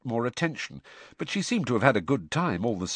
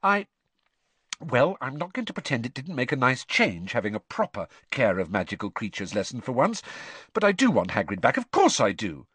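hastily; 4 semitones higher than usual. Acted. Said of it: "Hermione added hastily".

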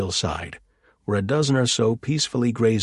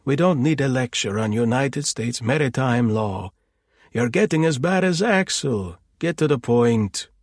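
irritable; 4 semitones higher, 3 dB louder than usual. Acted. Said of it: "Auntie Dagmar snapped".

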